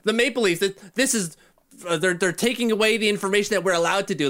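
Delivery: Steve Simmons. Retold or imitated. Podcaster mocking reporter after story was pulled, whining protest. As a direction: imitate a reporter crying foul, lightly hammed up. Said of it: "Steve Simmons is still crying, like".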